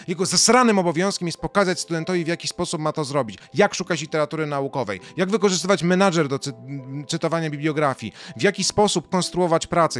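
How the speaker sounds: normal talking voice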